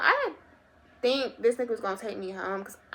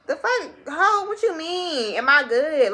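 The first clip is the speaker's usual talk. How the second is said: sharp high indignant retort, much louder; retold indignant outburst; 6 semitones higher, 6 dB louder, slower than usual. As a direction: fire it back at him like an insult. Reacting angrily to his question.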